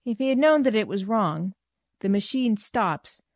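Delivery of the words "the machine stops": venomous remark. Retold or imitated. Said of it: "the venomous sort of remark".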